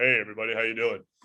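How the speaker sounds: low-pitched speaking voice. Explaining how vocal cords vibrate, demonstrating a low-pitched voice. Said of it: "When you have a low pitch voice".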